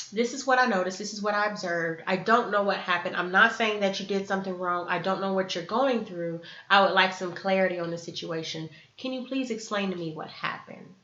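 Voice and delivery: calm, even request for clarity; non-blaming. Acted. Asking family member what happened, calm and non-blaming. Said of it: "You're not blaming them".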